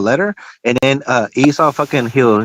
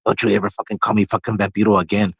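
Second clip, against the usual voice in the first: retold warning; 5 semitones lower, 4 dB quieter than usual. Retold angry warning, face to face.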